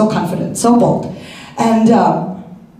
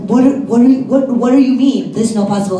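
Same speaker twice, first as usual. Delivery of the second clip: shocked disbelief; 3 semitones higher, 3 dB louder, faster than usual. Retold or imitated. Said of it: "And I'm like".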